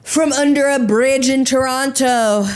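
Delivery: mock dude boast. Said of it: "you were like".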